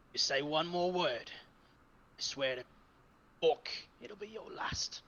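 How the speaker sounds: stern threat sinking to a whisper; threaten, ending in a harsh whisper; menacing threat. Acted. Stinksack warns Craig off speaking at bedtime, menacing.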